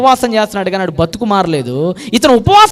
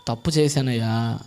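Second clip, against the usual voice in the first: much lower, near-hushed, slow; ashamed confession; 13 semitones lower, 13 dB quieter than usual. Acted. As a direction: confess with head bowed. Tax collector confessing.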